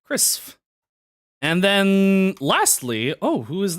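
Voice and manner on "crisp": whispering. Pretend. Whispered silly name.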